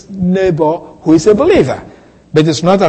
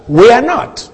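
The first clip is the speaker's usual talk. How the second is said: WE ARE NOT pitched higher and firmly asserted; emphatic assertion; 5 semitones higher than usual. Retold or imitated. Preacher quoting the author's assertion, emphatic. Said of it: "he was emphatic in the assertion".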